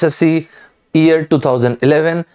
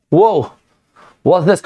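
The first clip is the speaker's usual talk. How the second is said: higher-pitched, mildly startled listener; mock astonishment, pitched up; puzzled reaction; 4 semitones higher than usual. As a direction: act out a baffled listener.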